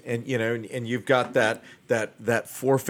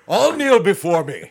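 dark lord; 6 semitones higher, 6 dB louder than usual. Pretend. Mock handshake power play.

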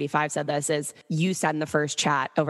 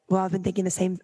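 attempted British accent; 3 semitones higher, faster than usual. Retelling what the British guy at the bar said, British accent. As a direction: imitate a British man, not quite managing it. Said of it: "he has a British accent".

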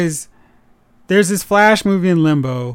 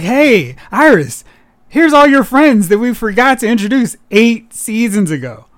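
raised-pitch, mildly hammed-up greeting; mock cheery announcement; 4 semitones higher, 4 dB louder than usual. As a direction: imitate writers overeagerly presenting new friends. Voicing the show's writers to Iris.

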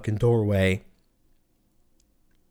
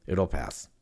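soft self-calming; 8 semitones lower, 7 dB quieter than usual. Retold or imitated. Repeating "it'll pass", calming himself down.

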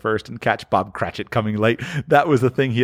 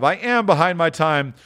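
apologetic; 6 semitones higher than usual. Acted. Clerk admits being late.

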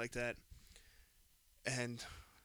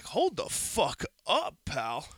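retold outrage; 3 semitones higher, 4 dB louder, much slower than usual. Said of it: "And I was like".

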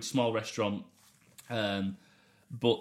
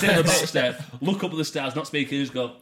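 amused excited telling; 7 semitones higher, 9 dB louder than usual. Real, not acted. Recalling silent smoke breaks, laughing.

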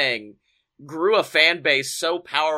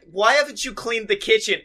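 higher-pitched mock nagging demand; Maurice scolding; 7 semitones higher than usual. Wife reaming the Miz about chores, scolding. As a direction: imitate a wife lightly reaming out a husband. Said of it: "she is just fucking reaming the Miz".

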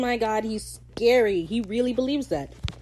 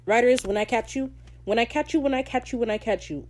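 higher, teasing threat repeated; playful threat; 4 semitones higher than usual. Real, not acted. Vlogger teasingly threatening the show's writers. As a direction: wag a finger at the writers. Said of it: "repeated threat at writers".

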